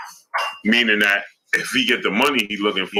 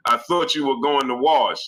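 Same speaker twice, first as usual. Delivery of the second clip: put-on girlfriend's scolding; 5 semitones higher than usual. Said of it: "and she said".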